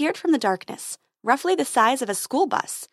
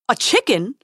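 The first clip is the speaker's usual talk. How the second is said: squeaking; 6 dB louder than usual. Acted. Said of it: "squeaked the prince".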